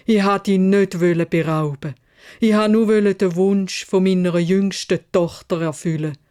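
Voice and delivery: lauteres, flehendes Bitten um Gnade; bettelnd. Acted. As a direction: fleh um dein Leben, auf den Knien. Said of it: "hat bettelt". (Kaufmann bettelt kniend das Biest an)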